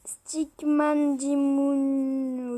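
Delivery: drawn-out French attempt at English; clumsy English accent. Real, not acted. French vlogger reading out an English game name, clumsy English accent. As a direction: stretch the English name out very slowly. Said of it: "j'ai pas un accent anglais".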